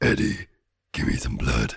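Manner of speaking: very deep monster voice. Imagining how a talking sword would sound, quoting the movie in Venom voice. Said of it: "the same voice of Venom".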